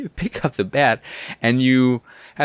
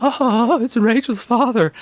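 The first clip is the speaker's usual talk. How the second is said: mock surprise; 13 semitones higher, slower than usual.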